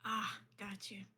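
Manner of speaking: soft whispered reply; whispering. Acted. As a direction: whisper so as not to wake her. Whispering, someone napping nearby.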